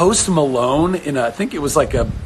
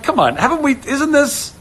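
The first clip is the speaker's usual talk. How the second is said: high, pleading come-on; mock exasperated plea; 4 semitones higher than usual. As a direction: plead that this is old news. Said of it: "I was like".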